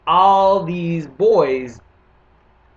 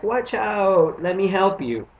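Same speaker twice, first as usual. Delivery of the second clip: higher, bright eager helper voice; a hint of a do-gooder chirp; 5 semitones higher, slower than usual. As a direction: play the overeager good citizen. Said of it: "Me being the super citizen".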